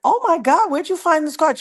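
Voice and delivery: excited squeal of a question, acted out; astonished delight. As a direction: re-enact being floored by a gift. Retelling amazement at handmade card.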